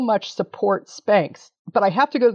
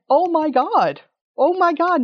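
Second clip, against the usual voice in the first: rising, second oh my God much higher; overwhelmed joy; 7 semitones higher than usual. Real, not acted. Hugging her partner backstage after the win, rising joy. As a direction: let the disbelief climb. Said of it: "reliving backstage hug".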